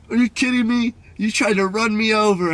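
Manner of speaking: high-pitched, indignant mock yell; retold angry yelling. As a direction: imitate an outraged passer-by. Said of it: "He was just yelling at me".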